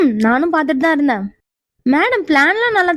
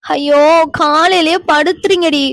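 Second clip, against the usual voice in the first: slow, dragged-out groaning complaint; sleepy whine; slower than usual. Acted. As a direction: whine at being woken. Woken Meera complains. (தூக்கக் கலக்கத்தில் சலிப்பு)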